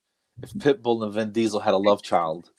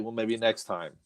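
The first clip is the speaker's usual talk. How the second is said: laid-back; 10 dB quieter than usual. Acted. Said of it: "light up some catnip and be like".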